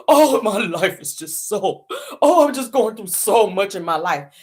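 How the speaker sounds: slow, whiny imitation of a self-pitying cry; slow mocking whine about her life. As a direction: mimic her fake sobbing complaint, dragged out. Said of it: "Stormy the same way".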